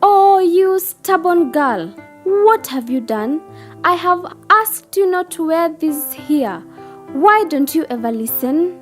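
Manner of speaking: high-pitched exasperated scolding; cross, high character voice; furious old lady. Acted. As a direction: scold the stubborn child as an angry guardian. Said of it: "The old lady was now furious".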